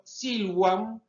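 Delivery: "silvam" a la latina, con la v como u. Shown as a demonstration. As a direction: say "silvam" as SIL-wam, high pitched. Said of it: "pronunciaban nuestra B corta como una U". ("silvam" agudo, pronunciado "síluam")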